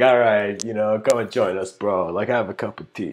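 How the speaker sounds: loosely attempted Queens accent; casual Zen master with a hint of Queens. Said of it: "imagine the Zen master is from Queens".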